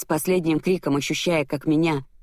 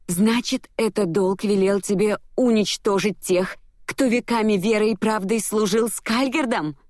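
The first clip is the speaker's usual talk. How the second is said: high, indignant question; outraged accusation; 7 semitones higher than usual. A narrator's reading. Heroine accusing him of destroying loyal servants, outraged. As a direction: press the accusation, voice climbing.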